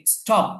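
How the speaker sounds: স্টপ with a plain, hard retroflex T; unaspirated T. Shown as a demonstration. Teacher shows a new word to students, স্টপ with unaspirated T. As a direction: say স্টপ without any puff after the T. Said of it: "এটার উচ্চারণ কি হবে?".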